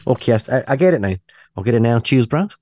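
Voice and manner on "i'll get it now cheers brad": lightly attempted New Zealand accent; bad Antipodean accent. Host mimicking New Zealand radio presenters, shaky Antipodean accent. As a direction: have a rough go at an Antipodean twang. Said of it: "trying to do that kind of Antipodean accent".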